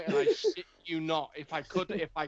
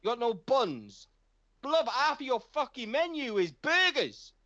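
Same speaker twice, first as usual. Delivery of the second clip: ranting complaint; 6 semitones higher than usual. Retold or imitated. To the KFC cashier about no buns, a high indignant rant. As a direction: rage at the cashier over the menu. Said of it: "I started ranting".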